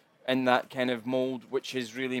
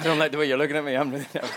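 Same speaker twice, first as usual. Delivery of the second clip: mock nervous; 2 semitones higher, much faster than usual. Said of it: "I'm only joking".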